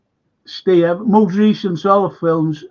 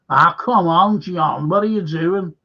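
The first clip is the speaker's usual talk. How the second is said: lightly exaggerated Scouse film quote; Scouse accent; 4 dB louder than usual. Quoting the Beatle films, in a Scouse accent. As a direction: put on a bit of Liverpool accent. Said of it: "Did you like me Scouse accent then?".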